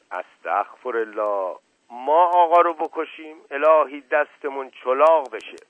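hint of a cornered village servant; flustered old servant. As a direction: fumble for an excuse, nervous and loud. Mash Qasem protests.

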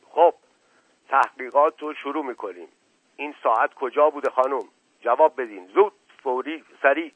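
a lightly voiced bossy officer; mimicking his boss. The assistant apes his departed boss, mildly bossy. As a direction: play the boss, mildly puffed-up and brisk. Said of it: "قیافهٔ او را به خود گرفت".

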